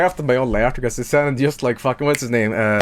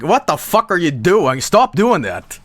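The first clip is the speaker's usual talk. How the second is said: acted exasperated protest, a little higher; imagined Jerma telling him off, mildly outraged; mild mock outrage; 4 semitones higher than usual. Streamer voicing an annoyed Jerma catching him out, mock exasperated. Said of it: "he'll be like".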